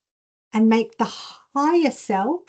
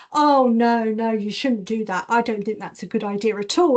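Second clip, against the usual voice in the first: discouraging husband. Retold or imitated. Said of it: "He was like".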